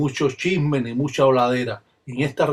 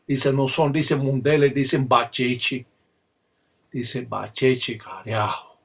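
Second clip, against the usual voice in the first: slowing ritual recitation, dropping at the close; ritual invocation winding down. Shown as a demonstration. Palero closing his demonstration, fading ritual invocation. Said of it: "estas énfasis que se utilizan en la religión".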